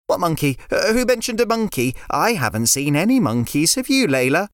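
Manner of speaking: put-on a sensible boy explaining gently; a hint of a child lecturing a friend; young boy River. River voiced, feigning innocence.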